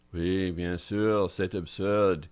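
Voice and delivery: slow, drawn-out French; Frenchwoman's native French accent. A narrator's reading. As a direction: speak it slowly as a Frenchwoman. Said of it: "in her delicious French accent".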